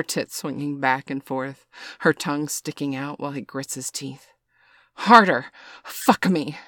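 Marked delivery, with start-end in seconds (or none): 4.9-6.6 loud, high cry of urging; scream. A narrator's reading. Woman to her lover mid-passion, screaming. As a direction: cry out, starting loud and high, then falling. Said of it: "she screams".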